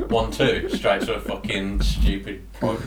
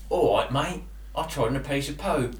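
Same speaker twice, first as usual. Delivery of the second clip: put-on Cockney accent; 5 semitones higher than usual. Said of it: "what did Cockney sound like?".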